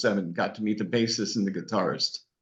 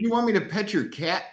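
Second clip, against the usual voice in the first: confused listener; 9 semitones higher than usual. Retold or imitated. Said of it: "talk like you're from Boston".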